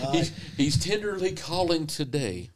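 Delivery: real laughter spilling into the line; laughing. Real, not acted. Preacher laughing at the friend's joke, laughing while speaking.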